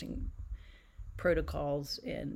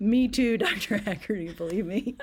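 loud joking reply; 5 semitones higher, 10 dB louder than usual. Retold or imitated. Retold reply to doctor, joking.

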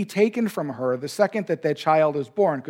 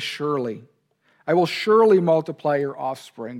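"surely" weighted firmly; emphasis on surely; 3 dB louder than usual. Shown as a demonstration. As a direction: lean into the word "surely". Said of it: "that place emphasis".

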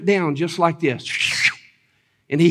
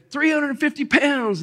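half-voiced excited yell, pitched way up; mock excited crowd; 9 semitones higher, 3 dB quieter than usual. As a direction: imitate an amazed crowd calling out the weight. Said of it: "all excited and screaming".

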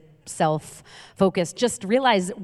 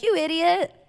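retold mock insult; 9 semitones higher than usual. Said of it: "my mom will get mad".

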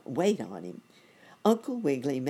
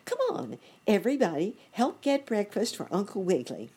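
high, louder call to the crowd; rally everyone with a high call; 7 semitones higher, 3 dB louder, faster than usual. A narrator's reading. Ant calling all the ants to bring breakfast, high loud call. Ant calls the colony to help.

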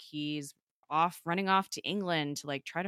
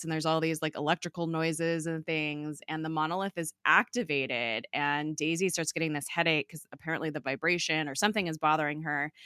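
ordinary talk

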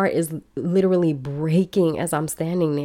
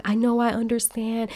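higher-pitched, lightly imitated sympathy; trying to be nice; 5 semitones higher than usual. Embassy official placating the crying applicant, mock-nice. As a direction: mimic an official offering belated compassion. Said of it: "Now she's trying to be nice".

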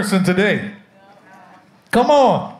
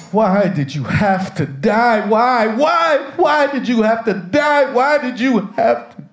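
mock wailing; 2 semitones higher than usual. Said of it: "And he's crying".

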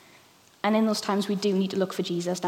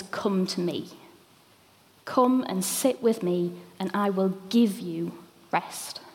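gentle invitation; slower than usual. Retold or imitated. Preacher voicing Jesus inviting the weary, tender and slow. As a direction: speak Jesus' words as a gentle invitation, slowly. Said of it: "the first thing he says is".

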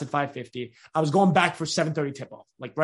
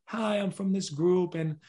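reading off slide. Retold or imitated. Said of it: "And they're reading off the slide".

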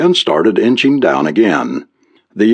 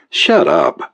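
hissed, higher "shut up"; whispered retort; 13 semitones higher than usual. A narrator's reading. Businessman silencing the teasing reporter, hissed. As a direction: cut him off under the breath.

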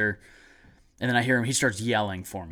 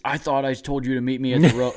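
retold scolding; 2 semitones higher, 5 dB louder than usual. Retold grandpa scolding on phone.

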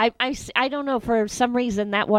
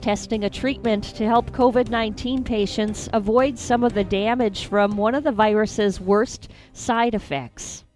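news read. Acted. Reads news headline.

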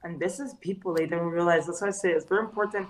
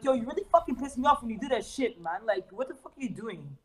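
higher, fast, mock-irritated rant; imitating his angry old self; 3 semitones higher than usual. Host imitating how he used to snap at people, mock angry and fast. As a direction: rattle it off like you're fed up, half in jest. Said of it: "Like, I would talk like that".

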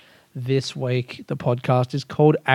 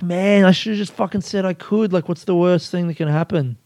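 exasperated at himself; frustrated; 4 semitones higher than usual. Real, not acted. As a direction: kick yourself for a missed chance. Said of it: "And now I just think".

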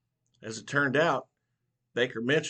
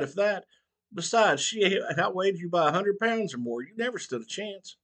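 mocking old barber; 8 semitones higher, 4 dB louder than usual. A narrator's reading. Barber mocks Mitchell.

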